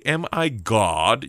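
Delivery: slow, drawn-out condescension; haughty, incredulous king; condescending. Acted. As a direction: stretch it out as if talking down. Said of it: "when they're all condescending".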